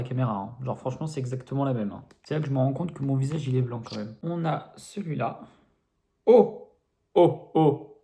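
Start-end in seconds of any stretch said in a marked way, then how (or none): 6.2-8.0 surprised. Real, not acted. Surprise at opened product.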